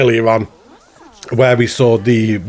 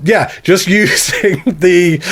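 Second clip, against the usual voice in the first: slow, chuckling through it; laughing, own accent; 3 semitones higher, slower than usual. Real, not acted. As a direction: back to his own voice, laughing. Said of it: "I sounded like a Brummie".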